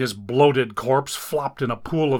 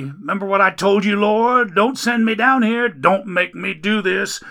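higher, louder, fast grumbling at the Lord; griping complaint; 7 semitones higher, 6 dB louder than usual. Acted. Man hauling Dagon upstairs complains to God, griping loudly. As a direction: gripe up the stairs at heaven. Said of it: "with every step the man griped".

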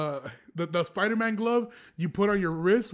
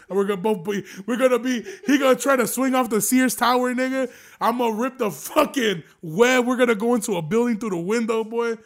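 building excited rant; 3 semitones higher, 5 dB louder than usual. Pretend. Telling fans about Spider-Man's web ripping, getting worked up. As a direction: voice climbs higher and louder as the disaster grows. Imagined Spider-Man rescue going wrong.

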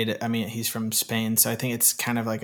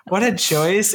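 high, loud gleeful repeat; excited exclaim; 8 semitones higher, 6 dB louder, slower than usual. Acted. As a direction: crow it with delight. Repeated, much higher and louder.

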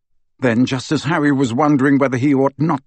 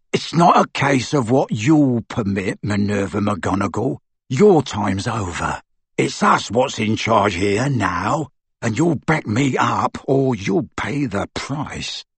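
menacing thug; slower than usual. Acted. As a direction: lean in and threaten her. Amycus threatening.

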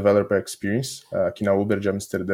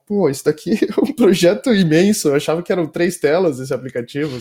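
surprised; 7 semitones higher, 5 dB louder than usual. Retold or imitated. New hire amazed at app size.

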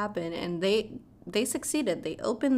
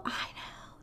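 whispered aside; 10 dB quieter than usual. Real, not acted. Aside after shocking plot.

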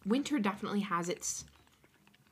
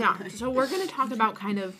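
talking through a mouthful of cookie; mouth full; 4 dB louder than usual. Real, not acted. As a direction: speak around a bite of food. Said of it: "I'm really just talking with food in my mouth".

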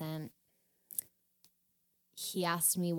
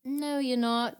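higher, louder mock disbelief; retold disbelief; 6 semitones higher, 8 dB louder than usual. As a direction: flatly contradict them, raised voice. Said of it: "And he's like".

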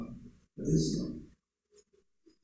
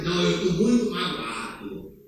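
slow, sulky whine trailing off; mock hurt feelings; slower than usual. Pastor mocking a member who refuses to forgive, slow sulky whine. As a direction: parody a wounded churchgoer. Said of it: "achar que".

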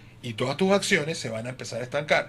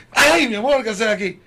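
sheepish sweet talk; 5 semitones higher, 3 dB louder than usual. Retold or imitated. Voicing himself caught by wife.

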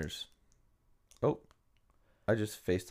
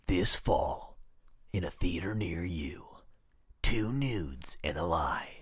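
slow, breathy movie-trailer whisper; 4 dB quieter than usual. Pretend. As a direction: whisper it like a film teaser.

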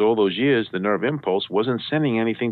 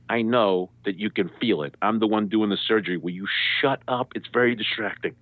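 controlled, exasperated telling-off; measured rebuke. Retold or imitated. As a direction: imitate a surgeon spelling it out with strained patience. Surgeon's deliberate rebuke, retold.

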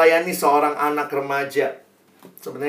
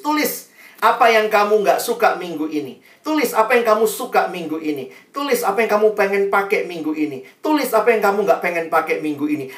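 brisk, higher-pitched orders, TULIS hit each time; acted instruction; 4 semitones higher than usual. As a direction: reel off commands like an editor assigning a task. Editor instructing teens, acted as commands. (instruksi tegas yang ditirukan)

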